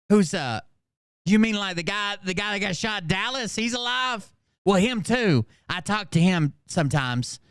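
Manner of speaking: high, dim mock voice of the woman; a hammed-up confused jail inmate; mock clueless woman. Mocking the woman's clueless reply.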